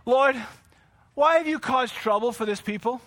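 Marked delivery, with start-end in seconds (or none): 0.1-0.4 firm, moderately raised address to God; contained but emphatic appeal; restrained raised voice. Acted. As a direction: call out, holding back from a full shout. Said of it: "let me not raise my voice".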